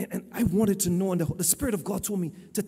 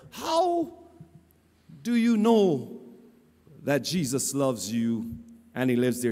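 playing the fool; 4 semitones lower, 4 dB louder, slower than usual. Preacher playing the fool questions cashier, exaggerated mock puzzlement. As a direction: feign puzzlement, pausing heavily between phrases. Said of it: "playing the fool, I said to her".

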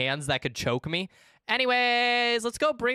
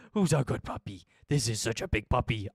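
squeaky praising a dog; 4 semitones lower than usual. Real, not acted. Praising the puppy again.

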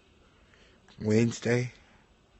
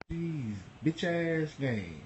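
muttered complaint; 4 semitones higher, 10 dB quieter, slower than usual. Real, not acted. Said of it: "You goddamn right I'm mad".

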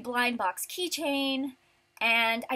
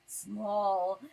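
tag small; 3 semitones lower than usual. Shown as a demonstration. Acting out the shrunken reflection.

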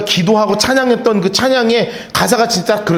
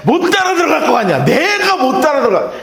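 excited Peter; 3 semitones higher than usual. Retold or imitated. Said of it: "눈이 뻘개져가지고".

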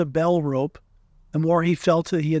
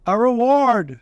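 raised, higher insistent voice; very loud; 6 semitones higher, 4 dB louder, slower than usual. A narrator's reading. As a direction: say it very loudly, pitched up. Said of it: "said Owl very loudly".

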